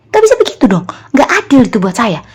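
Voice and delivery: re-enacted grumbling at an injustice; angry protest. Telling God it is unfair, angry protest. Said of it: "Gitu, saya marah-marah".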